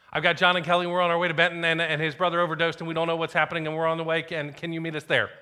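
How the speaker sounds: high, loud, run-on imitation of panic; panicked Dan Sealock. Friend phoning the pastor about an overdose, imitated panicked voice. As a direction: blurt it all out without a breath, mimicking panic. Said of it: "a panicked voice".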